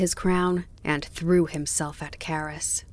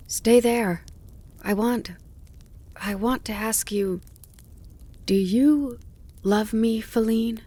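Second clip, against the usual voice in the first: higher, hopeful asking; eager pleading; 5 semitones higher than usual. A narrator's reading. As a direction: ask breathlessly for an answer. Bambi pleading his love.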